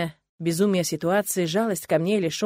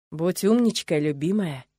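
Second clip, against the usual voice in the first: affectionate smiling; 2 semitones lower, slower than usual. Acted. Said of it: "ласково улыбаясь".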